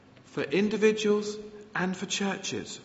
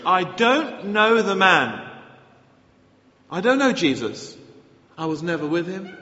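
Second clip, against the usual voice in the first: Peter cornered, swearing loudly he never knew Jesus; sworn denial; 2 semitones higher, 7 dB louder than usual. Acted. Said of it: "he swore to them".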